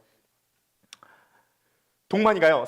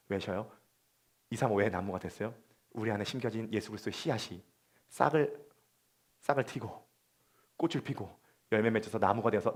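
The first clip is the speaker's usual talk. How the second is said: much softer, lower, intimate sermon voice; hushed preaching; 12 semitones lower, 12 dB quieter than usual. Acted. Pastor gently consoling the congregation, hushed. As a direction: draw them in close and quiet.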